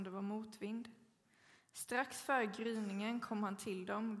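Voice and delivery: measured, solemn Bible reading; formal church reading; scripture reading. Acted. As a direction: read the Gospel text aloud to the congregation. Reads the scripture passage.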